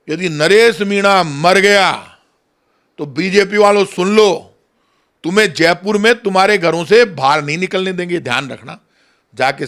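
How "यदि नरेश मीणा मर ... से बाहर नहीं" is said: stern warning. Real, not acted. Politician warning the ruling party over Naresh Meena, stern and deliberate. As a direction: spell out the warning word by word.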